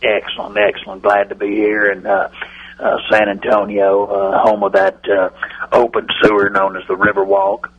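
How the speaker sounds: a hint of the Cowboys owner on a bad phone line; Jerry Jones impression. Radio bit, owner greeting the hosts, light folksy impression. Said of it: "let's welcome Jerry Jones".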